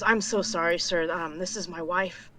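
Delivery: meek apology. Acted. Bowing apology to king.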